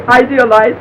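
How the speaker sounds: laughs out the word Idealize; laughing. Real, not acted. Laughing at the solved charade.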